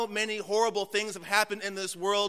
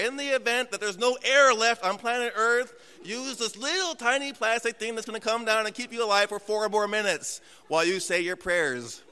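mock airline safety announcement, higher; mock flight attendant; 3 semitones higher than usual. Pastor mocking the flight safety speech, sing-song announcer voice. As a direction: parody of the cabin crew briefing.

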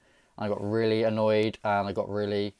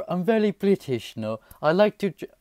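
mock British accent; 8 semitones higher than usual. Vlogger playing up his Britishness to the reactors, mock British accent. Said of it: "that doesn't sound British at all".

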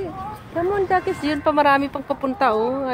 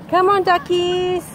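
coaxing the ducks; 5 semitones higher, much slower than usual. Real, not acted.

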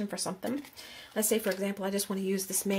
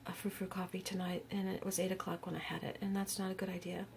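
whispering; 8 dB quieter than usual. Real, not acted. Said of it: "I'm wired".

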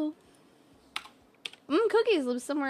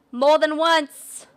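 louder and slowed right down; slow emphatic shout; 6 dB louder, slower than usual. Shown as a demonstration. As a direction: drag it out loudly for emphasis.

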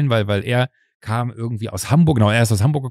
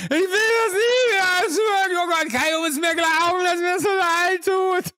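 very high, slow blubbering apology; hammed-up drunk sobbing, squealed and drawn out; drunken wailing; slower than usual. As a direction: wail it like a remorseful drunk. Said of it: "so besoffenen Manier".

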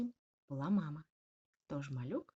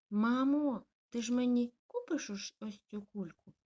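high, loud pleading ask; exclaim, begging for the balloon; eager exclaim; 6 semitones higher, 7 dB louder than usual. Acted. Puppy asking mum for a balloon, eager exclaim. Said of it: "вигукнув малюк".

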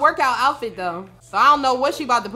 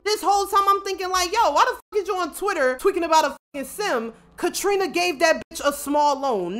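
ordinary delivery

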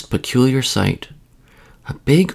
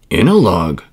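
"In" punched louder, lower voice; gently correct, leaning on "In"; gentle correction; 4 semitones lower, 5 dB louder than usual. A narrator's reading. Mother bear corrects child, gentle stress on "In". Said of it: "corrected Mother Bear gently".

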